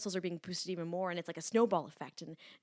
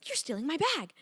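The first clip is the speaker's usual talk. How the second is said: put-on accusing old lady; 10 semitones higher, 7 dB louder than usual. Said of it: "She goes".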